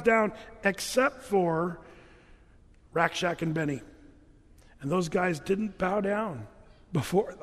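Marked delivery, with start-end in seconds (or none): 4.8-7.4 slow cartoon storytelling delivery; a hint of a kids' cartoon narrator, drawn out; lightly voiced Veggie Tales, slow. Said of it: "a little too much Veggie Tales".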